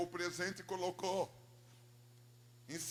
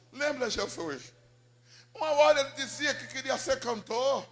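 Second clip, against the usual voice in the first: fervent prayer; 5 semitones higher, 9 dB louder than usual. Retold or imitated. Mother praying to Jesus for her lost son, pleading. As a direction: plead with raised voice, drawing words out. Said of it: "aumentava um pouco o volume da voz".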